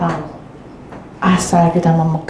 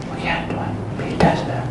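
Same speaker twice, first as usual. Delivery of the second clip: whisper; 7 dB quieter, faster than usual. Real, not acted. Awed aside to the congregation.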